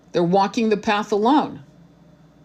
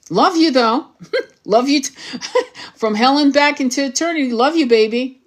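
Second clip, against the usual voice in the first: higher, laughing sign-off; laughing affection; 5 semitones higher than usual. Acted. Fed-up twin waving off her beloved, laughing affection. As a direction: toss out love through little laughs.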